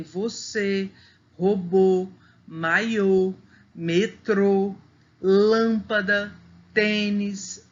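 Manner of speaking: closed accented vowel in "você, robô, maiô, metrô, lâmpada, tênis"; carefully spaced "você, robô, maiô, metrô, lâmpada, tênis", each accented vowel held closed. Shown as a demonstration. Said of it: "ele indica o som fechado".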